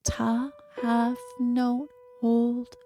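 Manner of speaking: slow, breathy whispered count. Shown as a demonstration. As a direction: whisper the beats slowly. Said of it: "here is an example of what that sounds like".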